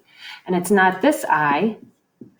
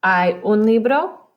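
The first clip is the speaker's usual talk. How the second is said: careful slow model; 3 semitones higher, 4 dB louder, slower than usual. Shown as a demonstration. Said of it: "I would change this to un".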